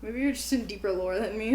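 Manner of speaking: soft breathy teasing aside; whispered tease. Real, not acted. Friend whispering a tease about Minecraft lore. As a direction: hush it like a secret joke.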